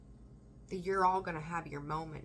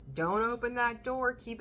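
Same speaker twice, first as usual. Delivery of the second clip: slow, louder plea of the scared self; a hint of a panicky inner voice begging; scared self pleading to keep the door shut; frightened inner voice; 5 semitones higher, 5 dB louder than usual.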